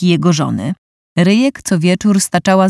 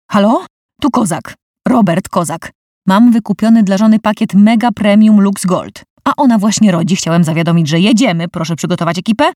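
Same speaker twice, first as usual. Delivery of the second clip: roaring into phone; 2 semitones higher than usual. Acted. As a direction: bark orders down the line. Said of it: "ryknął w słuchawkę".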